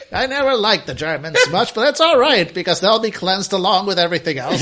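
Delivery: put-on laughing old coot voice; old prospector. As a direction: ramble like a cheerful old coot. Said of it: "He's like".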